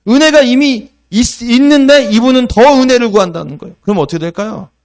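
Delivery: high, loud, driving sermon climax; full-force preaching. Acted. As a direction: press the point home to the congregation.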